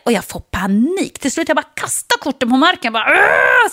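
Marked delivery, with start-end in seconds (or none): 3.1-3.7 frustrated yell. Retold or imitated.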